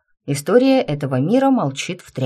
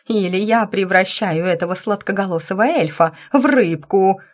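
furious threat; 3 semitones higher than usual. Acted.

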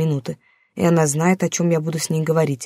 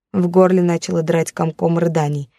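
ordinary delivery, nothing marked

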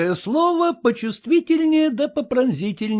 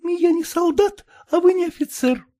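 tearful; 5 semitones higher than usual. Acted. Wife tearful refusing husband.

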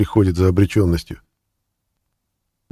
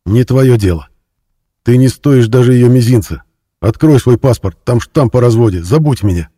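louder, higher harsh rebuff; a man tells his ex-wife to forget him, loud; angry retort; 4 semitones higher, 7 dB louder than usual. A narrator's reading. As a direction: shove her away with words. Shouting at ex-wife.

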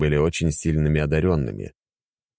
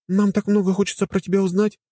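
upset. Acted. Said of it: "искренне расстроившись".

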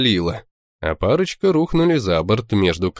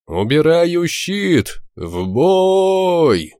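high, slow battle command; commanding shout; 9 semitones higher, 3 dB louder, much slower than usual. Acted. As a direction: bellow the order to the crew. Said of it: "я скомандовал".

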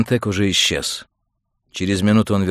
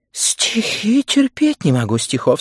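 high, loud, slow complaint; distressed protest; 13 semitones higher, 5 dB louder than usual. Acted. Woman recoils from Montag's poetry book, wailing.

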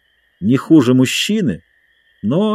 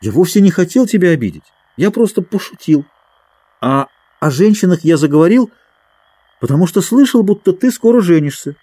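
hurried apology; 7 semitones higher, faster than usual. Acted. Matcham hastily backpedals.

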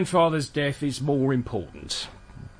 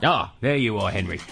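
usual speaking voice

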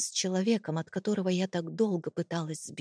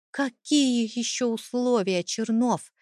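higher-pitched, agitated question; exasperated demand; 4 semitones higher, 3 dB louder than usual. A narrator's reading. Wife demanding her husband's conditions, exasperated. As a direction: challenge him with voice raised in pitch.

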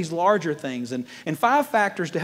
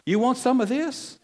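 slow, higher-pitched mock challenge; imitating wife's challenge; 6 semitones higher than usual. Wife squares up to her husband, mock challenge. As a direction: draw out the dare, rising at the end. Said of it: "ready to drop an elbow".

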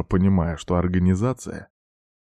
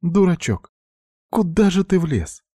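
tearful scolding; 11 semitones higher than usual. A narrator's reading. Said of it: "Она заплакала".

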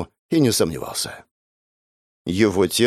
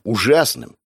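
plain reading voice

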